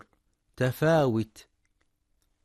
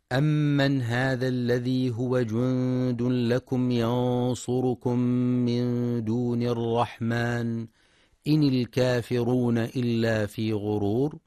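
Quran recitation; 3 dB louder than usual. Acted. Teacher recites a verse for listeners, measured chant.

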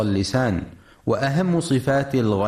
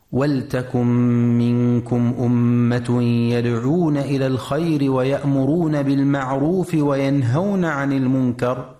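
sustained, even-toned chant of a verse; Quran recitation; 2 semitones higher than usual. Shown as a demonstration. Teacher reciting a verse to radio listeners, Quran recitation. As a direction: recite with held nasal n and m sounds.

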